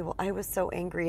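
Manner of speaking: quietly imitating an ashamed confession; a soft, sheepish admission of anger. Client to the speaker, mildly ashamed and quiet. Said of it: "and they're so ashamed".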